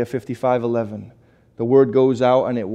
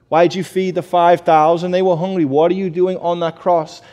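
higher, puzzled questions put to Jesus; mock incredulous questioning; 3 semitones higher, 4 dB louder than usual. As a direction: act out silly, baffled questions with raised pitch. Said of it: "Just think about how silly it sounds".

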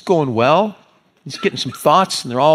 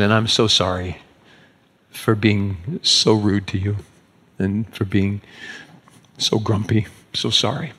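retold humble apology, lower and halting; sincere apology; 3 semitones lower than usual. Pastor to young lady for being rude and grumpy, sincere apology.

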